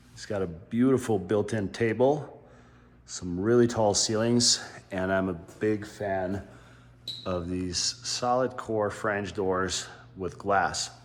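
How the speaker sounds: slight lisp from a new retainer; talking around a dental retainer. Real, not acted. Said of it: "if you hear a lisp in my voice".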